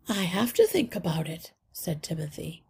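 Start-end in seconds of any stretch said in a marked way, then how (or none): 0.1-1.5 steady, unworried seriousness; serious but calm. Acted. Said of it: "He sounded serious, but calm and unworried".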